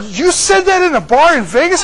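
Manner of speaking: loud, high astonished question; incredulous. Retold or imitated. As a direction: act out laughing disbelief. Acted disbelief at friend's story.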